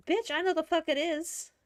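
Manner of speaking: retold exasperation, high and punchy; mad retort. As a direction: snap back in comic outrage. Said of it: "getting mad with my computer screen".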